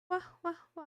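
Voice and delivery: soft, high little cat mews; meowing. Pretend. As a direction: mew quietly like a small cat. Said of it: "Good meowing".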